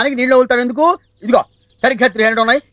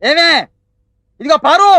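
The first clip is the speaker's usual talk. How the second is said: husband's raised call; calling out loudly; 3 semitones higher, 3 dB louder than usual. Acted. Husband summons his wife to him, calling out loudly. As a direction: holler for your wife. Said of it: "ఏంటా కేకలు?".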